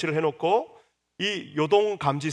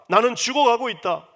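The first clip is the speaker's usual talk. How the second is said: higher, louder, 죽어가고 stressed and falling; anguished cry; 7 semitones higher, 7 dB louder than usual. Acted. Rachel telling Jacob she is dying, loud anguished cry. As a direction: wail 죽어가고 as if truly dying. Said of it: "라고 하면서".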